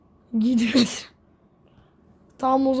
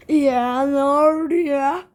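real surprise; 3 semitones higher, 6 dB louder, slower than usual. Real, not acted. Game goes wrong, exclaims.

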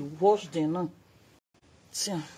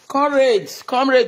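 calling out; 3 semitones higher, 4 dB louder than usual. Real, not acted. Calling out loud.

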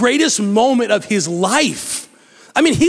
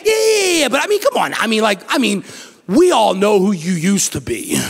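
dismissive friend. Retold or imitated. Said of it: "And you're like".

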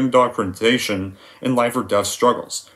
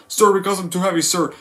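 higher, timid recruit answering; Private Pyle; 6 semitones higher than usual. Retold or imitated. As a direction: answer meekly, staying at attention. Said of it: "How does the scene go?".

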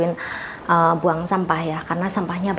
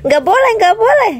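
playful scolding; 13 semitones higher, 6 dB louder than usual. Real, not acted. Playfully scolding a wriggling child.

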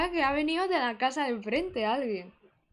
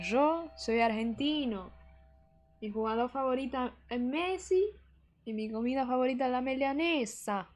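put-on 1 Argentine accent. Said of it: "No sé hacer acento argentino".

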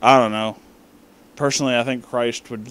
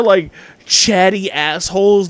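usual speaking voice

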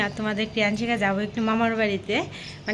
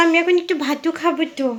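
put-on baby talk; 6 semitones higher than usual. Shown as a demonstration. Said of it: "বলো".

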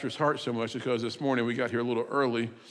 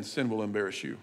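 ordinary delivery

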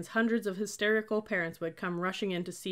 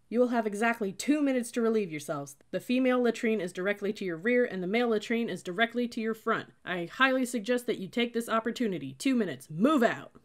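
loud, higher military briefing; booming orders; 5 semitones higher, 6 dB louder than usual. A narrator's reading. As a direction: command the whole line. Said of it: "boomed a voice from my right".

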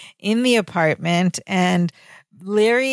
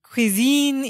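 mock French accent, slightly higher; 4 semitones higher than usual. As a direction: imitate a chef's French accent. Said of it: "he puts on this French accent".

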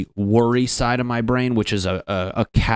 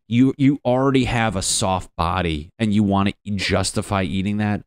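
Bronx trash talker; 3 semitones higher than usual. Retold or imitated. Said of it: "garbage truck driver from the Bronx".

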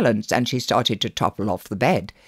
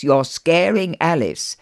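big brother voice; 4 semitones higher than usual. Acted. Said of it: "using his big brother voice".

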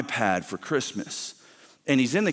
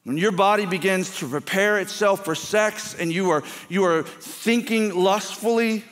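raised, intense preaching; preaching with an edge; 5 semitones higher than usual. Real, not acted. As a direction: press every line with frustrated urgency. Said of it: "the edge you hear in my voice".

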